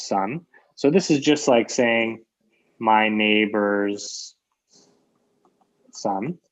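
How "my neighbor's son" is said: slow spelling out. Shown as a demonstration. Teacher spells out the paraphrase.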